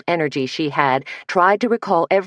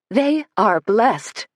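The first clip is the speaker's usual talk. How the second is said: slow, lilting sing-song; 5 semitones higher, much slower than usual. Acted. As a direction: sing it out sweetly and slowly. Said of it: "came Rachel's sing-song voice".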